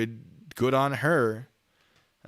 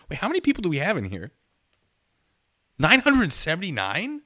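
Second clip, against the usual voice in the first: surprised; 7 semitones higher, 7 dB louder than usual. Real, not acted. Shocked at viewer count.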